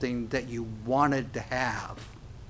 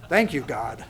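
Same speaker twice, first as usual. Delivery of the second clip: laughing thanks; 3 semitones lower than usual. Acted. Mock prayer while laughing.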